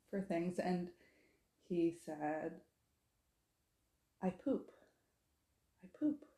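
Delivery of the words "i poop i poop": put-on small high toddler voice on the last word; a hint of an insistent small child; lightly voiced toddler. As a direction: imitate a little boy announcing it. Toddler's repeated plea in story.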